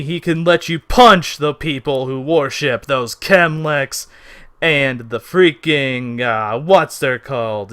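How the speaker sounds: loud pushy politician; brash candidate voice. Acted.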